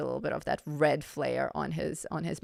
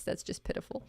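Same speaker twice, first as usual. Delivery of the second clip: voice breaking; 8 dB quieter, faster than usual. Real, not acted. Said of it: "my voice is breaking".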